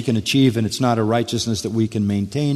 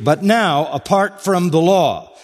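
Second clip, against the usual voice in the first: raised and stressed on apart from the law; emphatic reading; 5 semitones higher than usual. Acted. Preacher reading the emphatic verse, stressed high. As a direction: lift it high to hit the emphasis. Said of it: "That's the emphatic statement".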